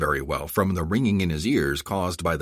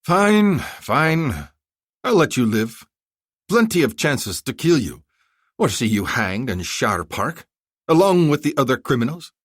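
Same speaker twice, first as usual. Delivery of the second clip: irritated concession; 7 semitones higher, 5 dB louder than usual. Acted. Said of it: "Zolkadar said".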